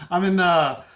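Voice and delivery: put-on Midwestern accent. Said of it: "I keep going to the Midwestern voice".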